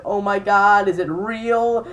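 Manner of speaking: imitating excited shrieks. Imitating the rugby girls on the phone, mock excited squeal. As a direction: play the screaming friends, half in fun.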